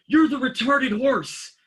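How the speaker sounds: high, slow put-on voice, mocking; mock teasing. Officer mocking the rookie in a high put-on voice. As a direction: rub it in with a cartoonish high voice.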